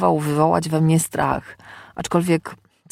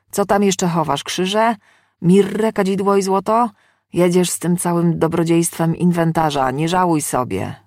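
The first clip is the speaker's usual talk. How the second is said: raised, indignant mocking; sarcastic protest; 2 semitones higher than usual. Demon doused with holy water by exorcist, sarcastic and indignant. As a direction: egg them on with scornful, lifted voice.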